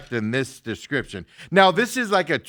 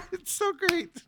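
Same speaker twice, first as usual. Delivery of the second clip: mock Trump; 14 semitones higher, slower than usual. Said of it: "and he goes".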